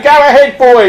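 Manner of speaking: high crowd heckle; acted high cheer; egging on. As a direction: urge him on from the audience. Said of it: "others are going".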